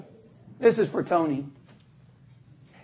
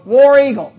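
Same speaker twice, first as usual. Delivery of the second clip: loud "War Eagle" fan cheer; 6 dB louder than usual. Shown as a demonstration. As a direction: shout it like a football fan. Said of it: "this is what you do. You go".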